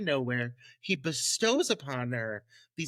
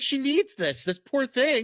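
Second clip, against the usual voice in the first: pitying mother; 5 semitones higher, 5 dB louder than usual. Retold or imitated. Voicing the sympathetic mother.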